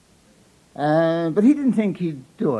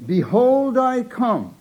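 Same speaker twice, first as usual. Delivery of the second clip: second try, higher, still nervous; repeated announcement; 7 semitones higher, much slower than usual. Retold or imitated. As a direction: announce again a bit higher. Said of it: "he announced again".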